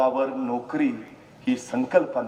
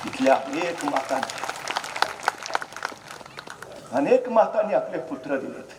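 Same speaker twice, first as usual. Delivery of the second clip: ordinary talk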